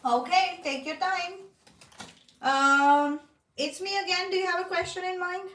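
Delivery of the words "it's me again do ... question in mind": talking through a mouthful of food; chewing while talking. Real, not acted. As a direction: speak while munching a snack. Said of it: "I'm munching".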